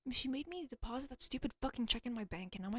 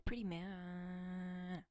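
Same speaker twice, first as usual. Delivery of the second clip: slow, breathy admiring whisper; much slower than usual. Real, not acted. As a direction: savour the words in a whisper. Slow whisper about a man.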